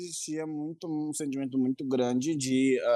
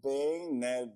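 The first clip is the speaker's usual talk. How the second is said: repeats the words in a halting, flustered stammer; mild real nervous stutter; much slower than usual. Real, not acted. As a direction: trip over the words as if still nervous. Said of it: "Dá pra ver pelo tanto que gagueja".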